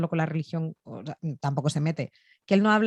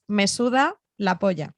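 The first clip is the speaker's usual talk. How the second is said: slowed for a learner; 4 dB louder than usual. Shown as a demonstration. Repeats it slowly for a learner.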